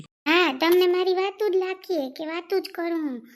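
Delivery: loud indignant comeback; angry retort. Acted. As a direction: fire it straight back at him. Wife snaps back in quarrel. (ગુસ્સાથી સામો જવાબ)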